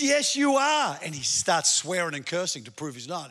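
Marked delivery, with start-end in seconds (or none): 0.0-1.0 put-on high insistent girl.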